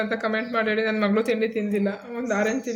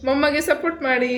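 higher sing-song line for echoing; 4 semitones higher, 3 dB louder than usual. Real, not acted. Mother prompts child to repeat. (ಮಗು ಪುನರುಚ್ಚರಿಸಲೆಂದು ರಾಗವಾಗಿ)

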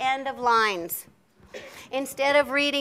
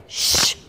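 1 exclamation sound; 4 dB louder than usual. Shown as a demonstration. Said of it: "it's just like a sh".

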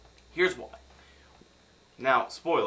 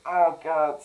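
loud, exasperated groaning plea; raised, fed-up outburst; 5 semitones higher, 10 dB louder than usual. Acted. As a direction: cry out as if fed up. Acts out exasperation at the accent.

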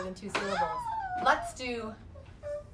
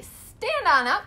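calling out; 7 semitones higher, 8 dB louder, slower than usual. Real, not acted. Mom calls class to stand.

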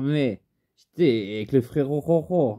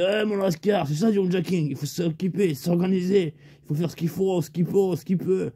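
Lascar's voice; 5 semitones higher than usual. Retold or imitated. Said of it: "Il me fait".

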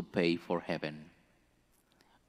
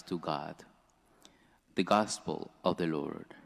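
measured, formal proclamation of scripture; solemn liturgical reading; gospel reading; 4 dB louder than usual. Acted. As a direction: read the gospel to the congregation. Reads the gospel aloud.

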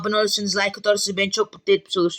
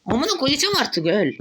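high, enraged screaming at a target that won't die; furious shout; 7 semitones higher than usual. Real, not acted. Gamer yelling at enemy who won't die, high enraged shout. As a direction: lose it completely, yelling. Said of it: "Beni sinirlendirme artık".

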